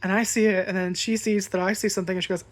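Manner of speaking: ordinary talk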